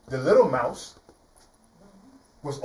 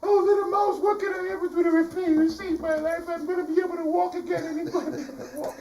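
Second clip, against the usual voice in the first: lion thanking the mouse; overjoyed lion; 13 semitones higher than usual. Acted. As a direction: gush with relief and joy. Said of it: "the lion said".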